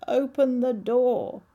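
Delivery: slow, loud croaking frog. Acted. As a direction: call her like a croaking frog. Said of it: "It spoke in a croaking voice".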